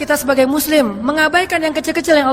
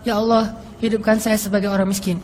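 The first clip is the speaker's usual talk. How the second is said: prayer; 4 semitones lower, 3 dB quieter than usual. Retold or imitated. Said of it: "Makanya Nabi berdoa".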